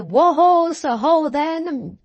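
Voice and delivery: high, loud, drawn-out call to horses; wary driver's call. A narrator's reading. Driver halting his tired horses on the hill, wary call. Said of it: "with a wary".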